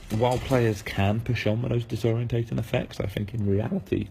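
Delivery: losing voice, a touch hoarse; strained hoarse throat. Real, not acted. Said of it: "oh, I'm losing my voice".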